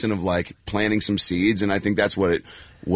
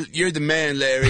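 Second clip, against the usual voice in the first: higher-pitched hammed-up hero worship; mock fawning fan; 7 semitones higher than usual. Actor fawning over Larry mid-take, mock starstruck. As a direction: gush at your idol, jokingly. Imagined fawning during takes.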